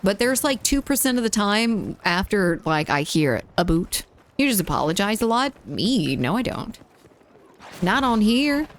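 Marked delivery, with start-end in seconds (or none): 3.6-4.0 imitated Canadian "a boot"; mock-Canadian "a boot"; Canadian pronunciation. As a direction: say "a boot" with an "oo" in place of "ow". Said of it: "the fact that he's Canadian".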